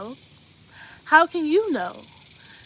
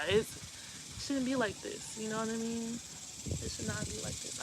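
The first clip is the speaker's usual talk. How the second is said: near tears; 8 dB quieter than usual. Real, not acted. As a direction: let the voice sink as if about to cry. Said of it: "That makes me wanna cry".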